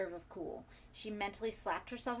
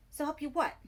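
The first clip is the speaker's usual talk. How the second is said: taunting; 7 semitones higher, 7 dB louder than usual. A narrator's reading. Caller taunting Bertie.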